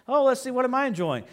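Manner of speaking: gloating taunt. Pretend. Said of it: "I'm gonna go".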